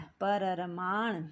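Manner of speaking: परमाण stretched very slowly, every sound apart; परमाण spelt out slowly as the mistake; wrong form, drawn out. Shown as a demonstration. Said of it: "ये गलत है". (गलत रूप परमाण धीरे-धीरे खींचकर)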